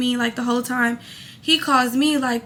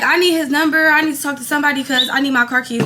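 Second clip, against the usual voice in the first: irritated; 3 dB louder, faster than usual. Retold or imitated. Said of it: "I'm irritated as hell".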